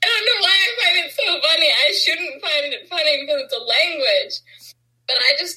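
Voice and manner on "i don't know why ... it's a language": talking through giggles; laughing. Real, not acted. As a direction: laugh while you talk, fast. Cracking up at Norwegian word.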